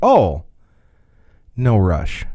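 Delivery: short held beat after "oh", then continues. Retelling what a man said with a weird look: pause after oh. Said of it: "he paused when he said it".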